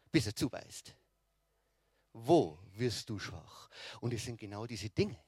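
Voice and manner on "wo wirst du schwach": low, slow, menacing devil voice; a predator sizing up its prey, slowly; lurking devil. Acted. The devil voiced watching you. (lauernder Teufel, tief und langsam)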